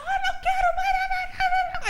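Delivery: high, whiny mock refusal; playing the sulking spouse; mock sulky spouse. Preacher mimicking a sulking spouse to the church. Mocking spouse who gave up.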